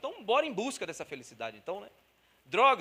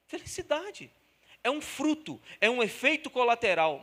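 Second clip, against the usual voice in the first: agudo e crescendo em força; proclamação; 5 semitones higher, 4 dB louder than usual. Real, not acted. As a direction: proclama o clímax. Ponto alto do sermão. (clímax proclamado)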